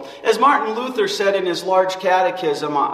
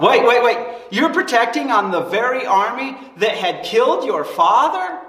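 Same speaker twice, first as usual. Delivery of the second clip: incredulous; 4 semitones higher than usual. Acted. Preacher to congregation, stunned at the king's choice, incredulous. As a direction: stop short in mock disbelief.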